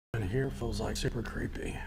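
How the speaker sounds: hushed whisper. Real, not acted. Creepy dark room, ghost hunting.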